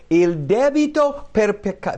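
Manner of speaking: high, loud declaration; emphatic proclamation. Acted. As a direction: proclaim it forcefully as Jesus' verdict. Voicing Jesus' declaration of payment.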